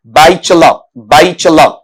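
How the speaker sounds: "बैचलर" as batch-la, final r silent; correct pronunciation. Shown as a demonstration. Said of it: "इस तरीके से".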